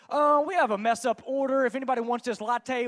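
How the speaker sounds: lightly projected public announcement; mild mock announcement. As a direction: imitate announcing to a whole coffee shop. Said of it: "They just announced it to the whole".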